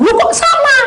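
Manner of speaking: put-on very high, loud, laughing child; child amazed that they like the same food; delighted surprise. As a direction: squeal with glee.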